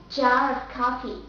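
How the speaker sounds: jar of coffee in British English; British jar, R linked to "of"; British accent. Shown as a demonstration. Teacher giving the last example, British accent. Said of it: "the second will be British accent".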